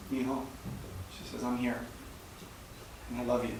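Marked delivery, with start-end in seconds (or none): 0.1-0.4 gentle, softer motherly calm; calm, collected. Retold or imitated. Mom calming her crying son on the phone, gently calm. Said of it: "in this calm, collected". 1.4-3.5 soft, steady and tender; calm, collected. Retold or imitated. Mother over the phone reassuring her son, calm and tender. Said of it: "in this calm, collected".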